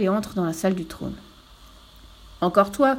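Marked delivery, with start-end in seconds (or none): 2.4-3.0 louder angry exclamation; king's outburst. Acted. King greeting the returning fool, louder outburst. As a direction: bark it at the fool. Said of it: "crie le roi".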